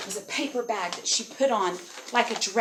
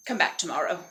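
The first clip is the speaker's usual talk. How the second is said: lower, offhand dragon dismissal; dismissive dragon; 5 semitones lower than usual. Acted. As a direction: send her away in a dropped voice.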